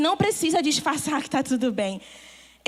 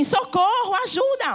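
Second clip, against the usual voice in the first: mock cry for help; 5 semitones higher than usual. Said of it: "o Espírito faz assim".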